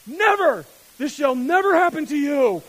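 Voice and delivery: loud, high shouted refusal; inner voice shouting. Retold or imitated. Tired dad's flesh refusing the kids, shouted loud. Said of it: "And my voice goes".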